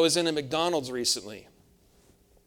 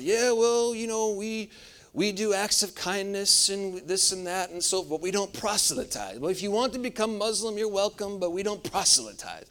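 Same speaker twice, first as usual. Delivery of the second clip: the Muslim man; 4 semitones higher than usual. Retold or imitated. Muslim man explains, retold.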